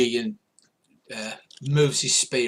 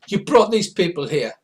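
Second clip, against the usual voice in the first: high, loud creature challenge; Morricanth voice; 6 semitones higher, 7 dB louder than usual. Acted. Second Morricanth confronts the first, high and loud. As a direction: project it high in character. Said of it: "what accent I'm using for the, uh, Morricanth".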